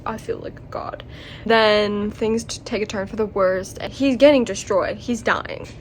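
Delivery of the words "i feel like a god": whisper. Retold or imitated. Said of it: "He was like".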